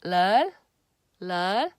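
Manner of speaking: stand-alone "lil" sounded out firmly; loud careful "lil"; Korean 를 alone. Shown as a demonstration. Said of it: "the lil is by itself".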